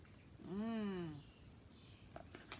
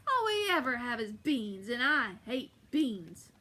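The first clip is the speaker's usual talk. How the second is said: grumpy complaint; 5 dB louder, slower than usual. Acted. Giant complains to wife.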